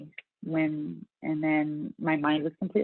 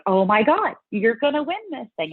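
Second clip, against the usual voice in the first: higher-pitched imitation of a gushing friend; mock excited gushing; 5 semitones higher than usual. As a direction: act out a friend's excited prediction. Voicing excited friend predicting a win.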